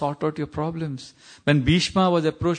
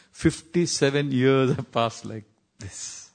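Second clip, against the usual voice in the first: drawn-out, weighty retelling; slow reflective quote; slower than usual. Retold or imitated. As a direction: stretch each word and let the ending fade.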